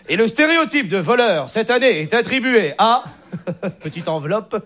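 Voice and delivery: hushed, teasing envelope reveal; milk the suspense like an Oscars host; mock award presenter. Mock awards ceremony announcement.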